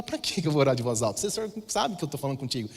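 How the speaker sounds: half-whispered reply to the voice of God, secretive; hushed whisper. Retold or imitated. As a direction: whisper it so nobody nearby hears. (sussurrando baixinho para Deus)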